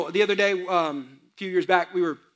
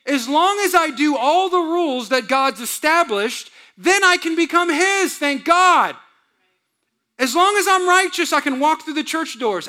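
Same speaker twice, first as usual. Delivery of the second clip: legalistic churchgoer; 5 semitones higher, 3 dB louder than usual. Retold or imitated.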